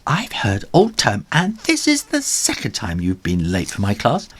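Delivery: high scolding teacher voice; stern teacher. Acted. Miss Tiffany scolds late Ginger, stern. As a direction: tell him off firmly.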